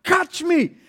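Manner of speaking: high, drawn-out shout; shouting to father. Retold or imitated. Son falling from a tree calls to his father, shouting. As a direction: call out high and stretched. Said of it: "he shouts to his father".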